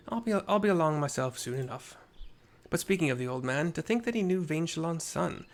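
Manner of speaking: easygoing comrade; mild hearty voice; lightly voiced soldier. Reads Gaidalo's lines.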